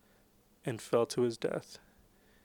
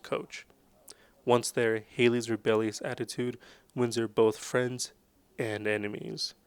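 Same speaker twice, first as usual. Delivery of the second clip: trailer synopsis read. Acted. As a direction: sell it like a film blurb. Reads the movie synopsis.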